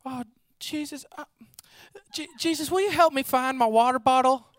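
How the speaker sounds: pleading like a silly friend; mock whiny prayer. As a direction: friend begging Jesus over a lost water bottle, mock whiny. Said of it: "she'd be like".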